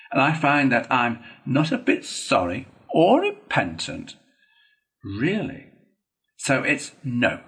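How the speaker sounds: lively, swooping self-justification; animated, emphatic excuses; impatient, unrepentant Toad. Acted. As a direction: argue your way out without remorse.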